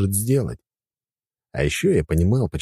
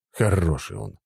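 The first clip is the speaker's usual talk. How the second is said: plain reading voice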